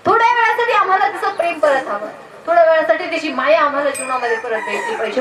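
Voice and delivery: an earnest acted plea to God; pleading with God. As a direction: call out to God, then implore. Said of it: "माझ्या देवाला विनवणी करावी".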